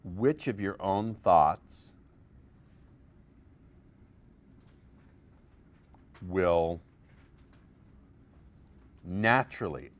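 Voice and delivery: "naturally" slow and marked; stressed naturally. Shown as a demonstration. Coach to seminar, underlining the adverb with stress. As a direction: lean on "naturally" with slow pauses. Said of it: "underline the word naturally".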